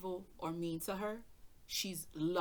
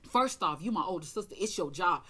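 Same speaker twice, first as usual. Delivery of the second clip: brother insisting; 7 dB louder than usual. Retold or imitated. Brother's retold demand on phone.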